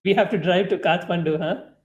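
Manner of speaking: evil smile. Acted. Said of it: "giving a very evil smile".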